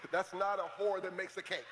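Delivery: words through a laugh. Real, not acted. Laughing at the pun.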